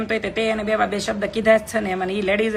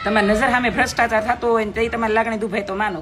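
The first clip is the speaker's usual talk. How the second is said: indignant shout. Real, not acted. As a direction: shout it out in outrage. Indignant lecture about corruption.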